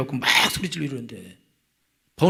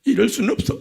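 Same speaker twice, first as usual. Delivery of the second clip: indignant wife; 8 semitones higher, 4 dB louder than usual. Retold or imitated. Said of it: "이러면서".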